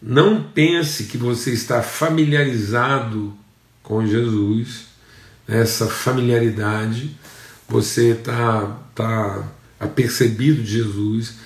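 slow, measured preaching with pauses between phrases; deliberately slow. Real, not acted. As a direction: take it slowly so each phrase sinks in. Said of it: "Vou falar devagar". (falando devagar, com pausas)

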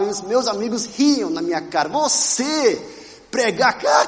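ordinary talk

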